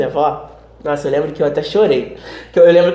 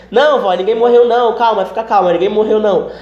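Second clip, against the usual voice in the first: higher, insistent calming-down voice; urgent reassurance; 5 semitones higher than usual. Retold or imitated. Grandson calming grandmother who fears a death, urgent reassurance. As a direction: act out hurriedly soothing a panicked grandmother.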